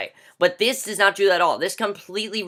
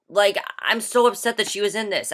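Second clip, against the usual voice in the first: ordinary talk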